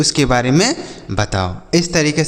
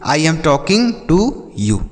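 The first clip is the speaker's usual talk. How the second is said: each English word said slowly for the class; slow model sentence; much slower than usual. Shown as a demonstration. Teacher to children, modelling an English sentence slowly. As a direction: spell it out slowly for learners. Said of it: "मैं तुमसे बात कर रहा हूँ".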